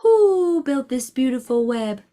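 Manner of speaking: hooted first word, gliding down; owl voice. A narrator's reading. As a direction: stretch the opening word like an owl's hoot. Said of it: "asked the owl".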